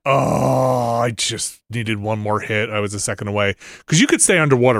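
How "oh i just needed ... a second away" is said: low, soft groan of mild frustration; deflated. Acted. Player lamenting a near miss underwater, mildly deflated. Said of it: "that's very deflating".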